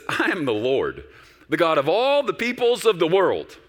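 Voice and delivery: high, ringing declaration from God; booming voice of God. Acted. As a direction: proclaim it as the Lord, slowly and grandly. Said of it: "I love it when he talks like this".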